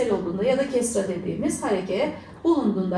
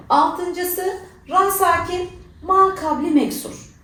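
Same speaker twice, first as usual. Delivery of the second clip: slow, deliberate rule heading, raised; slow rule announcement; 7 semitones higher, 4 dB louder, slower than usual. Shown as a demonstration. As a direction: spell out ra sakin, ma kabli meksur slowly. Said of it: "announcing the rule slowly".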